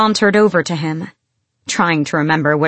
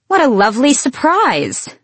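loud and pleasant; 7 semitones higher than usual. A narrator's reading. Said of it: "she said loudly enough for everyone to hear".

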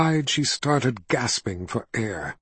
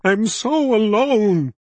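higher, slow wailing line; wailed; 8 semitones higher, 3 dB louder, slower than usual. A narrator's reading. Kaelin crying out in her grief, slow wail. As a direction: wail it out of despair. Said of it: "she wailed".

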